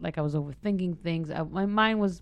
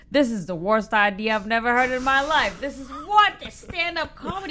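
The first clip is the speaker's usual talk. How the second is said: higher, scolding Jewish mother; 4 semitones higher, 7 dB louder than usual. Retold or imitated. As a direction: nag like a disapproving Jewish mother. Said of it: "my mother's voice in my head".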